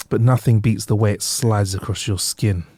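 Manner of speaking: slow, seductive mock advert line; sultry ad read. Host carried away with a mock sensual water advert. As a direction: breathe it out like a sensual ad, half-joking. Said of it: "I got a little bit carried away".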